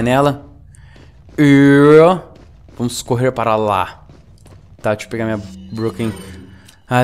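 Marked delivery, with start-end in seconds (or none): 4.8-6.1 garbled rush. Real, not acted. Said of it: "eu tô até falando errado".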